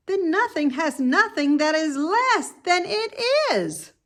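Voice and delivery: high, earnest piglet voice; baffled little pig asking; puzzled young pig. Acted. Wilbur questioning the lamb, high and puzzled.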